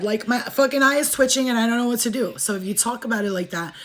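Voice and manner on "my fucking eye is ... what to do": higher, lightly panicked imitation; mock scared reaction. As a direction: act out not coping. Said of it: "like you're scared".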